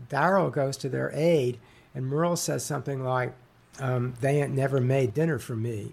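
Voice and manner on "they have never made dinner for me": put-on heavy Southern accent. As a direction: quote the line in a lazy Southern accent. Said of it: "heavy Southern accent".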